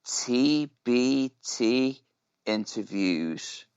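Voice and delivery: slow, drawn-out title call; segment announcement. Pretend. Co-host echoing the segment name, slow announcement. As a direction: stretch out each part like a show ident.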